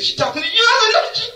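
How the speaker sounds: high laughing no she ain't; laughing denial. Retold or imitated. Preacher retells denying doctor's call, laughing high. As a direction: protest through laughter, high.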